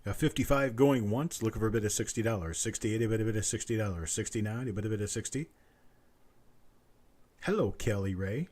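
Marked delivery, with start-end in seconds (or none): 0.0-5.5 quick steady auctioneer patter; auction bid calling. Acted. Auctioneer calls for the next bid in brisk patter. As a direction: keep the bids rolling like an auctioneer.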